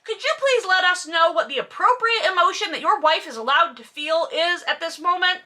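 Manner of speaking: high, mocking sarcasm; sarcastic aside to Maxim. Real, not acted. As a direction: needle him with exaggerated politeness.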